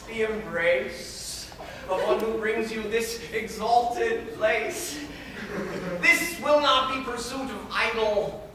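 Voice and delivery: lightly voiced domineering guardian declaiming in verse; Arnulf. Arnulf telling his ward she must marry him, lordly and smug. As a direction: lay down the rules of marriage, smug and superior. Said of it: "I was to play the character of".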